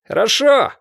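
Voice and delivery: high, loud call upward; a loud upward shout. A narrator's reading. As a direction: shout it up at the window, head tilted back. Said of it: "крикнул он".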